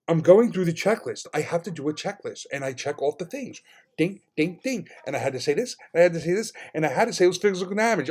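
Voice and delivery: mimicked store clerk. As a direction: recite it as an imitated, put-upon clerk.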